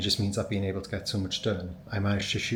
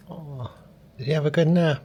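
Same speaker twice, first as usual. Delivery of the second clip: much higher, louder cooing question; 6 semitones higher, 6 dB louder than usual. Real, not acted. Owner asking her puppy about his nap in a baby voice. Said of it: "my baby voice on the internet".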